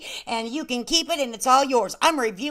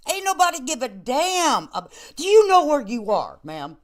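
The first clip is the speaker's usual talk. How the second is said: ordinary talk, nothing marked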